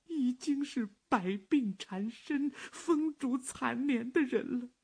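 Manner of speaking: high, slow, soothing daughter's voice; gentle daughter. Acted. Daughter comforts sick father. (温柔劝慰的女儿)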